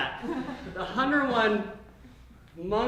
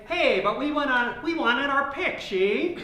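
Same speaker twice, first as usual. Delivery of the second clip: lightly voiced old-movie gangster, higher pitched; Edward G. Robinson; 5 semitones higher than usual. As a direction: lightly imitate a classic film tough guy, pitched up. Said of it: "are all Edward G. Robinson".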